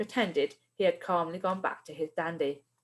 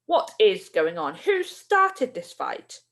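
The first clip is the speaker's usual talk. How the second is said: angry demand; 3 dB louder, slower than usual. Acted. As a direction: interrogate them, fuming. Angry teacher demands answers.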